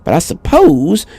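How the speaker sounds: put-on high old woman voice, a little sharper; insistent old woman. A narrator's reading. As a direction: correct him firmly, then soften. Old woman insists on her name.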